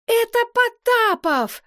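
high, slow exultant cry; jubilant. A narrator's reading. Stasik spots Potapov arriving, jubilant high cry. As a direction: Stasik recognizes his friend, overjoyed. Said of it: "возликовал Стасик".

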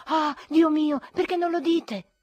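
loud and high, throwing up the hands; exasperated cry. A narrator's reading. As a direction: burst out in indignant relief. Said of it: "gridai io".

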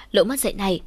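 usual speaking voice

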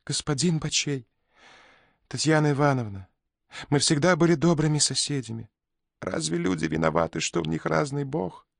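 high, fast pleading cry; shrill bird voice begging; piercing birdlike voice. A narrator's reading. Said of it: "пронзительным птичьим голосом".

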